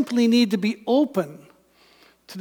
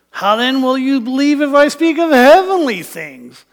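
louder, pushing back sharply; Jesus sharply chiding a doubting scholar; sharp rebuke; 4 dB louder than usual. Acted. Jesus to Nicodemus, pushing back with a louder sharp reply. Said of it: "hear Jesus' words in the way Nicodemus would have heard them".

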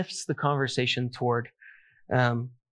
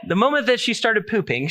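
laughing through the words, higher; 6 semitones higher than usual. Real, not acted. Preacher telling about his daughter, laughing. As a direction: giggle while getting it out.

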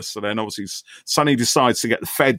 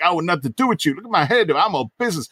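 high mock voice; mock Hope; 7 semitones higher, faster than usual. Mocking Hope's brush-off to a friend, high mock voice. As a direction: play it as a snooty brush-off. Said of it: "he's all like".

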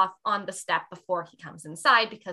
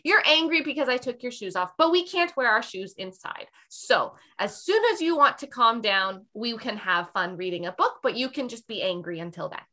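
calm reassuring mommy. Retold or imitated. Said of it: "And then I say".

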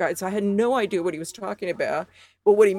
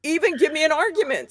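laughing; 8 semitones higher than usual. Real, not acted. Laughing at the easy win.

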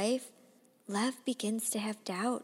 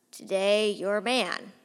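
loud, swaggering toast to little brother; half-mocking loud toast; drunken proclamation; 5 dB louder than usual. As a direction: announce it like a tipsy big brother.

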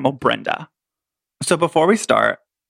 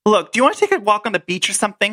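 Brenda reenactment; 4 semitones higher, faster than usual. Acted. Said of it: "me and Robert are gonna reenact it".

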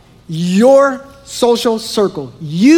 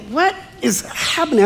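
mock disbelief; 5 semitones higher, 5 dB quieter than usual. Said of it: "I was like".

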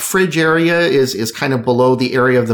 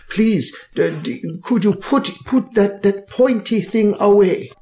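nervous pleading barkeep; 3 semitones higher than usual. Acted. Alphonse pleads at rapier point.

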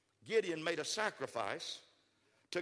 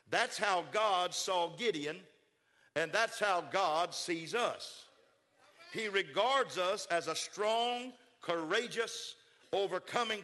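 slow, deliberate, every word weighed; slow emphasis; slower than usual. Real, not acted. Preacher slowing down so the congregation hears God's view. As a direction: drive the point home slowly.

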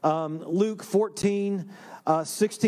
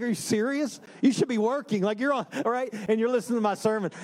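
mock disbelief; 3 semitones higher, faster than usual. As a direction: play up being taken aback. Retelling his disbelieving reply to her.

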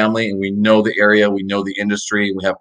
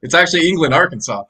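lightly held British accent; 5 semitones higher than usual. Shown as a demonstration. Guest clarifies where the bank is, British accent. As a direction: keep a touch of British accent. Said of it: "in your best British accent".

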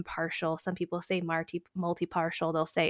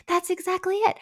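high-pitched grateful exclamation; light up high at being understood; relieved client; 11 semitones higher, 3 dB louder than usual. Acted. Client finally understood by mediator, relieved. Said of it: "I'm so glad someone finally understands".

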